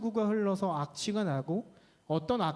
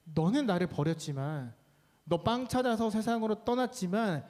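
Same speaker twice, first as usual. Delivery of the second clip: God's reassurance. Acted. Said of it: "하나님이 말씀하신 거죠".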